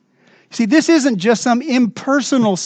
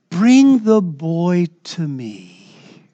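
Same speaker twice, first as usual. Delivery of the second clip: gentle; 3 semitones lower, much slower than usual. Acted. Quoting Jesus gently, slowly.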